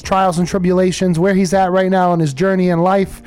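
upbeat on-air announcer read; radio DJ voice. Acted. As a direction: sell it like a radio host.

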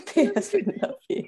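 high squeaky echo; mock squeak. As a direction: squeak it like a teasing copy. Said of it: "I squeaked".

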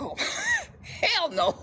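high, slow, laughing mock dismissal; laughing refusal. Author imitating her heroine turning the athlete down, laughing. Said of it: "And she's like".

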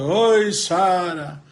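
slow, drawn-out wailing call for Sara; crying lament. Acted. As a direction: moan her name like a heartbroken madman. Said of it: "o dia inteiro chorando". (lamento choroso e arrastado)

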